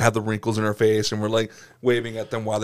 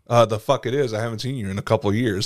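mock outrage; 2 semitones higher, 4 dB louder than usual. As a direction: go off at the ex, half laughing. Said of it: "I'm like".

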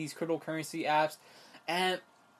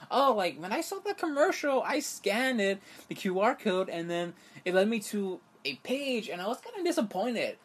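higher airy imitation of the anchor; mimicking the anchor; 4 semitones higher than usual. Vlogger mimics the blonde anchor, high and airy. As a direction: play her as a ditzy newscaster. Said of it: "She said".

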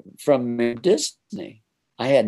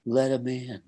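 frail, softer sick man's voice; weak voice; 5 dB quieter than usual. Retold or imitated. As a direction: barely push the words out. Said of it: "I hear a real weak voice say".

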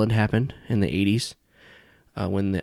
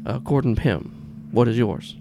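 put-on slightly New York older gentleman; Gordon Pym; 3 semitones higher, slower than usual. Older boss introduces himself to visitor, slight New York accent. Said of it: "he has, like, this slight New York accent".

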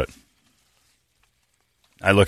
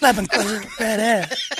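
high, slow, laughing through it; laughing mimicry; 12 semitones higher than usual. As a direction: repeat it while cracking up. Mimicking Brady's line while laughing.

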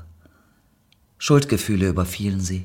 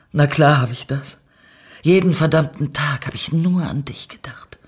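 exultant; 6 semitones higher, 5 dB louder than usual. Acted. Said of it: "jauchzte Lorna".

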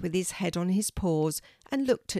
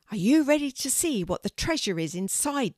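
put-on eager girl; 6 semitones higher, 3 dB louder than usual. A narrator's reading. Kelty asks her dog.

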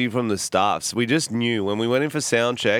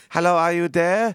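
put-on higher, questioning Asian-accent caller; put-on Asian accent, pitched up; 7 semitones higher than usual. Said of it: "it was a very Asian woman".

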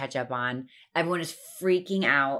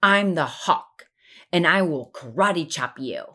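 put-on little boy bravado; 4 dB louder than usual. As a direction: puff up like a tiny superhero. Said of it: "And he goes".

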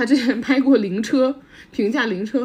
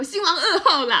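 put-on Taiwanese accent; 7 semitones higher than usual. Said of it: "那个证婚人说".

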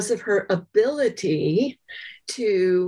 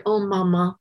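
put-on gentle child reassurance; 3 semitones higher than usual. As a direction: sweetly mimic a little girl comforting Mama. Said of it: "touch her mother's face very gently and say".

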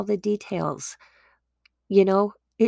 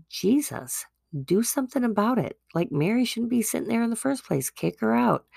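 quick, higher, whiny complaint; exasperated complaint; 4 semitones higher, faster than usual. Acted. Martha to Jesus about Mary, fast indignant complaint. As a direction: rush it out like an indignant sister.

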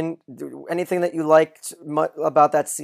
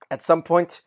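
exasperated question; 5 semitones higher, 8 dB louder than usual. Retold or imitated. Johnny Dogs's clueless question.

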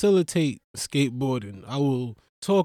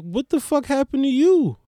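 much higher, startled; mock shocked colleague; 9 semitones higher, 3 dB louder than usual. Coworkers shocked at the comic's injuries, high. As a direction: gasp at his battered face. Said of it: "they be like".

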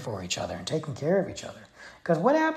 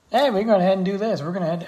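loud, fast gung-ho Texan; Texas stereotype; 7 semitones higher, 7 dB louder, faster than usual. Retold or imitated. Vlogger mocking Texas lawmakers as a loud brash Texan. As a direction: boast it like a reckless Texan lawmaker. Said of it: "it's literally the stereotype".

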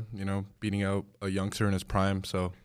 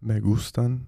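low magnetic voice; 2 semitones higher, 4 dB louder than usual. Pretend. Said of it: "it's gotta be in Spanish".

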